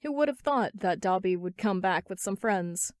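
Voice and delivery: ordinary delivery, nothing marked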